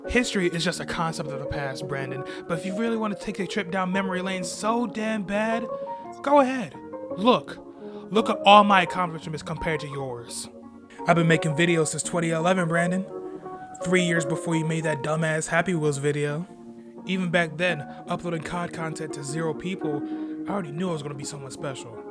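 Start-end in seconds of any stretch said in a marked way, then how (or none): 6.2-15.7 loud promo shout. Acted. Heated wrestling promo.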